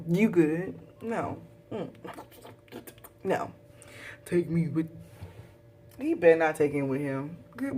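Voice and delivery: sassy, scornful taunts at a traitor; mocking taunt. Viewer talking back to Kato on screen, taunting. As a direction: tell him off with sass.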